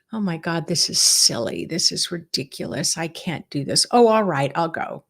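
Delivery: mildly grudging, dismissive grumble; reluctant scoffing. Acted. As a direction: act out a half-hearted, reluctant participant. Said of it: "not from that place of".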